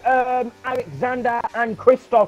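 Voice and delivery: hyped-up play-by-play; excited commentary. Acted. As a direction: call the battle with rising excitement.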